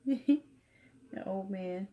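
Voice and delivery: muted, hushed vlog voice. Real, not acted. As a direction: keep it hushed so he sleeps. Whispering near sleeping baby.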